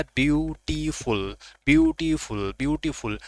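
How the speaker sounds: ब्यूटीफुल said with weight, falling at the end; stressed model of ब्यूटीफुल, pitch dropping at the close; emphatic stress. Shown as a demonstration. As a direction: lean into ब्यूटीफुल as a teacher's drill. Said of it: "आपको जोर देना है".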